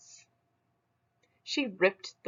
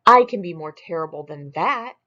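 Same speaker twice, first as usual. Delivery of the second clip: louder brag; loud boast; 8 dB louder than usual. Acted. Smug loudly brags to Claus. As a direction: puff up the claim.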